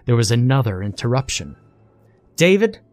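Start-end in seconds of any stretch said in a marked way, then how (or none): 2.4-2.8 high, loud scream of a name. A narrator's reading. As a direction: yell his name sharply. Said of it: "screamed his boss, Angela".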